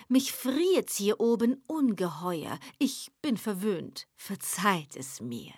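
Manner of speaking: unhurried, soothing, slyly composed; calm devil. Acted. The devil calmly slows down the eager poet.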